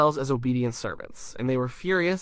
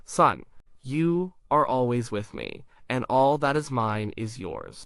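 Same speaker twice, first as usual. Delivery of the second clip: gentle plea; slower than usual. Retold or imitated. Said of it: "He pleads with him".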